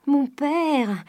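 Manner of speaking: high, piercing call to a father; ringing cry. A narrator's reading. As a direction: cry it out high so the house hears. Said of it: "d'une voix si éclatante". (cri éclatant et aigu)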